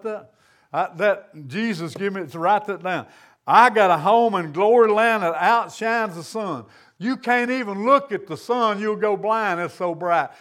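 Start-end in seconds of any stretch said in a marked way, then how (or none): 3.5-6.6 emphatic declaration. Real, not acted. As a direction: proclaim the song line with conviction. Repeats song line with emphasis.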